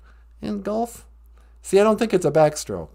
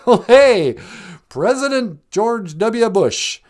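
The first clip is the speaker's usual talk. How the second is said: excited greeting; 2 semitones higher, 3 dB louder, slower than usual. Acted. Host greets caller, performed.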